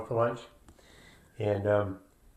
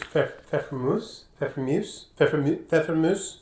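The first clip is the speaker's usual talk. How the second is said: German accent; 3 semitones higher than usual. Shown as a demonstration. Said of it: "Now I'm trying to do a German accent".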